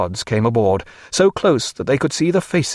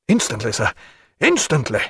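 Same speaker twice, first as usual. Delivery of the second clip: eager Muffet, hurrying. Acted. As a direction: jump to help at once.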